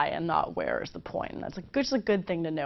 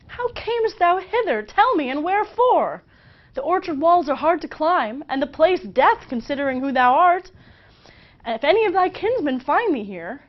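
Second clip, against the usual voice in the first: high, louder, anxious Juliet; Juliet worried; 8 semitones higher, 5 dB louder than usual. Acted. Juliet warning Romeo about her kinsmen, high and anxious. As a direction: fret over his danger, high and loud. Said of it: "Juliet says".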